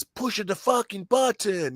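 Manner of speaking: high, slow, hammed-up Italian immigrant; milk it as a melodramatic Italian last line; over-the-top Italian accent. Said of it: "completely over the top".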